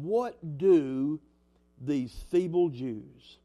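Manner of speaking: slow, drawn-out mild mockery; mocking. Preacher reads Sanballat's taunt to the congregation, slow and mildly mocking. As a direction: read the taunt slowly, lightly mocking. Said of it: "a little bit of mockery".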